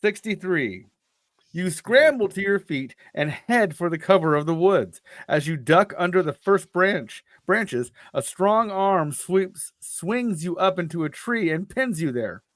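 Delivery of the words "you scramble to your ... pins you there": measured read-aloud storytelling; story narration. A narrator's reading. Reading a choose-your-path adventure aloud to a co-host, story narration. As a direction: narrate an adventure, lingering on the suspense.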